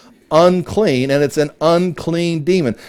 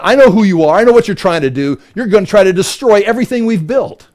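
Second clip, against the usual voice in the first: defiant demon; 4 semitones higher, 4 dB louder than usual. Retold or imitated. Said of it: "he's like".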